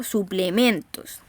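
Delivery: slow "Suplementos", leaning on MEN; stressed penultimate syllable. Shown as a demonstration. Teacher confirming the tonic syllable, slow stressed MEN in "Suplementos". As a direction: draw out "Suplementos" with weight on MEN. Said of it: "penúltima sílaba".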